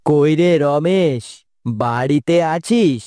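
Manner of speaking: calling out. Acted. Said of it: "মনে হলো বাইরে কেউ ডাকলো তোমাকে".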